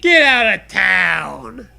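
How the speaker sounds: mock disbelief shout.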